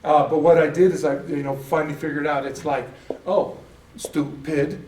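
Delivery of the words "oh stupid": STUPID slowly split in two, stu-pid; slow, amused STUPID in two chunks; syllable by syllable. Shown as a demonstration. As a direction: break STUPID into two separate syllables with a pause. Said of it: "Oh, there's two syllables".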